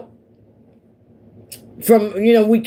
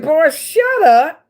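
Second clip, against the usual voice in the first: mock dismissive; 10 semitones higher, 4 dB louder, slower than usual. Retort to flirting neighbor.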